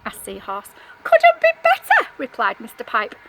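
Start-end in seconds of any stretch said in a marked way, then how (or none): 1.0-2.1 delighted fish. Acted. Pipefish answers with delight.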